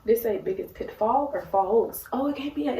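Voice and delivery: a little tipsy and loose; slightly tipsy, playful chatter. Real, not acted. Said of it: "I wasn't so tip".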